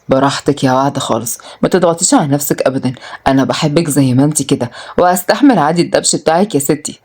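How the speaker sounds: lightly voiced, low-pitched male character; low, tender acceptance; reassuring man. Voices Adham reassuring Waad.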